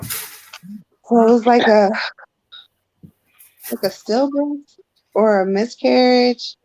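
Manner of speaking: halting, tearful, with long pauses; close to tears. Real, not acted. Psychic sensing a stillbirth in a reading, close to tears. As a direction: struggle to get painful words out. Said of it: "about to cry".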